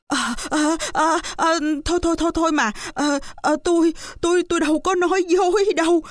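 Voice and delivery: high, stammering frightened plea; terrified widow. Acted. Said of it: "bà cụ sợ quá".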